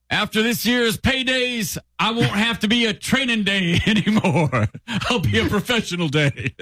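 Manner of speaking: high-pitched, terrible actor impression; hammed-up movie star speech, pitched well up; Denzel Washington. Contestant guesses with a garbled film reference, high hammy impression. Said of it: "Denzel Washington".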